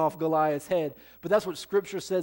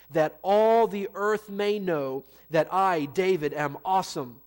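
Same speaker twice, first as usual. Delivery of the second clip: joke misreading; 2 semitones higher, 4 dB louder, slower than usual. Shown as a demonstration. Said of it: "That's not what he says".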